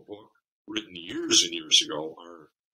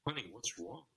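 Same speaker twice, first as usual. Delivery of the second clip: softer, worried "what's wrong" to a crying partner; softly concerned boyfriend; 3 semitones higher, 5 dB quieter than usual. Retold or imitated. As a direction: gently ask what happened, voice dropping away. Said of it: "he's going, my heart is breaking".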